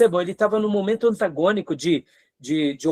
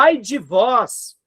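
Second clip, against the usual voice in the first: denouncing; 2 semitones higher, slower than usual. Retold or imitated. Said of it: "enchendo o peito e falando com denúncia".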